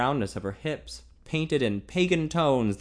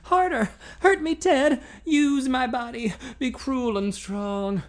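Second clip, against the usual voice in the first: hoarse demand; 13 semitones higher, 4 dB louder, slower than usual. A narrator's reading. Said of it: "her hoarse demand".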